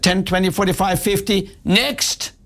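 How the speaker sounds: unfriendly teller rushing the customer away; rude teller counting. Retold or imitated. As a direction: count it off coldly and dismiss him. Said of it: "she hated me".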